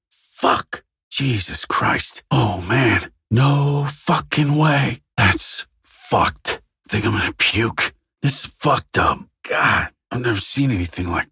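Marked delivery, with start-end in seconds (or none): 3.3-5.0 slow, higher-pitched disbelief. Acted. Investigator cannot believe the scene, stretched-out disbelief. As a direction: drag out each word, incredulous.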